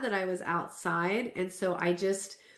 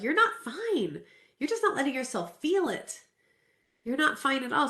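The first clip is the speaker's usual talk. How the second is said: firm therapist; 5 semitones higher than usual. Retold or imitated. Therapist confronts her, retold.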